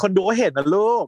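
"คนดูก็เห็นนะลูก" said high and excited, stress on เห็น; high teasing exclaim. Real, not acted. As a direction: pitch up on "คนดูก็เห็นนะลูก". ("คนดูก็เห็นนะลูก" พูดเสียงสูงตื่นเต้น)

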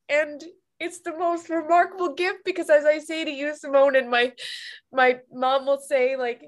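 real tearful crying while speaking; ugly crying. Real, not acted. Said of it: "I'm ugly crying".

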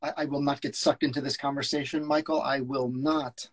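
a hint of a stern agent; firm refusal. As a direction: shut the argument down. S0 reads George.

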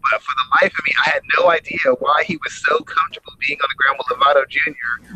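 choppy phone audio dropping out; crackly cordless phone. Real, not acted. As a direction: voice breaking up on a bad line. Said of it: "you're still breaking up a little bit".

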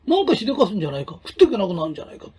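fast, anxious fretting of a worried parent; worried parent rushing. Retold or imitated. Mother fretting over her child's future, fast worried rattle.

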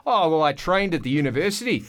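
put-on Australian accent, breezy lie; fake Australian accent. Actor lying to casting people, fake Australian accent. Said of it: "I completely lied from the moment".

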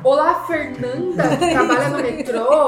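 seductive voice. Pretend. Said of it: "A gente faz aquela voz sedutora".

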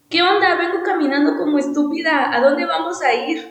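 fed up with wandering, blurt it out half-laughing; blunt frustration. Retold or imitated. To the friends wandering bar to bar, an exasperated blunt outburst. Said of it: "mi momento así de Karen sincera".

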